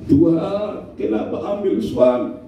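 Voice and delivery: understated imitation of a weeping widow; half-sung mock grief. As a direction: lament lightly, pretending to cry. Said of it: "ada yang menangis begitu".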